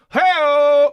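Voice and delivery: loud, high hammy punchline cheer; hey-o. Acted. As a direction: belt it like a talk show sidekick. Punchline after a sex joke.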